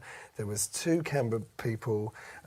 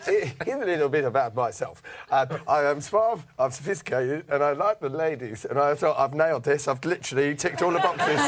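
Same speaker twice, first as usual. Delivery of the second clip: put-on South African accent; 3 semitones higher, 5 dB louder than usual. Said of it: "I went really South African".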